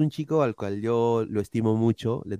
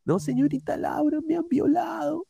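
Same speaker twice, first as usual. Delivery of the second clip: much higher, put-on Peruvian voice; exaggerated Peruvian accent, pitched way up; mock Peruvian accent. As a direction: parody a poor Peruvian guest on Laura's show.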